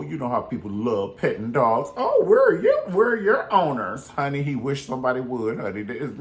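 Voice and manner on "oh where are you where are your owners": put-on high, loud baby-talk to a dog; mock sweet dog lover. Mocking people who want to pet a scary dog, cooing high. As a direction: coo at the dog like a clueless stranger.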